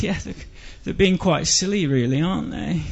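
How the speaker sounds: understated, hesitant English disapproval; awkward mild agreement. Retold or imitated. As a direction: agree meekly to avoid sharing his anger. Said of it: "I didn't know what to say".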